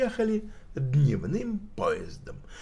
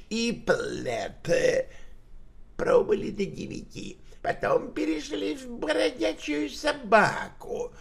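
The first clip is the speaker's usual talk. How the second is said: high, slightly voiced old tramp; old man voice; 3 semitones higher than usual. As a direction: mumble an alibi like an old drunk. Old tramp gives his alibi.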